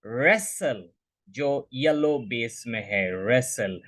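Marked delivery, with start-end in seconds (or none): 0.1-0.8 "wrestle" as RESS-ul, short e and silent t; correct pronunciation. Shown as a demonstration. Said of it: "the left side". 3.1-3.8 "wrestle" as RESS-ul, lower and falling; correct pronunciation. Shown as a demonstration. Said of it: "This is the right answer".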